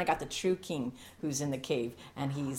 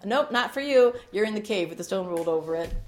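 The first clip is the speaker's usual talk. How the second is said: mock dismissal; 3 semitones higher, 5 dB louder than usual.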